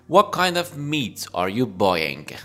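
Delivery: every word of "What kind of meat are you buying?" said slowly and distinctly; slow it down so learners catch each word; slow clear repeat. Shown as a demonstration. Teacher slowly repeating the butcher's question for learners.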